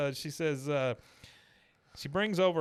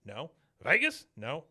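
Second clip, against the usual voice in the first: rapid-fire questions, the city names jumping high; a cocky old man running through his list; Cotton quizzing Tammy; 4 semitones higher than usual. Retold or imitated. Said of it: "She goes, she goes".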